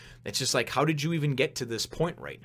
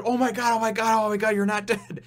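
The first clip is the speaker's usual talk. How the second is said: high, loud, repeated exclamations; frantic mock relief; 9 semitones higher, 5 dB louder than usual. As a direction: gush in an imitated girl's panic. Acts girl running up, relieved.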